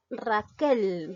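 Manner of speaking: "Raquel" with its force on the last syllable, quel; stress on QUEL. Shown as a demonstration. Teacher shows an aguda word, stress on the last syllable. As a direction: lean on the final quel in "Raquel". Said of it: "la mayor fuerza de voz recae en la".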